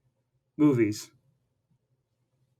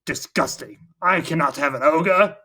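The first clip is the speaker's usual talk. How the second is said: disgusted king. Retold or imitated. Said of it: "the king's like".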